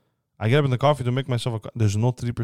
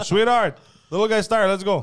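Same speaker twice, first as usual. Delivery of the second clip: mock sweet parent; 9 semitones higher, 3 dB louder than usual.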